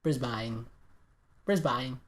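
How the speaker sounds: mock Australian "Brisbane" as BRIZ-bine; badly faked Australian accent, "Brisbane" as BRIZ-bine; attempted Australian accent. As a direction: say "Brisbane" with a long I ending, Australian style. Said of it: "I can probably do Australian".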